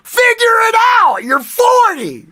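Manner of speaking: high, loud, hammed-up scolding; exasperated mock yell. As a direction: shout it in comic disbelief, pitch way up. Retold scolding over making coffee.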